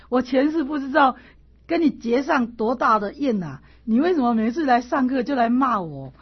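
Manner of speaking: bewildered silent plea to the scolding classmate; pained inner plea. Retold or imitated. Bowing while pleading inwardly with the scolder, pained and bewildered. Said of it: "拜的时候心里就想".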